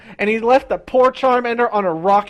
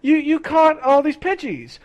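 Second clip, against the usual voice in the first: Ash voice; 7 semitones higher than usual. Retold or imitated. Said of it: "he's like".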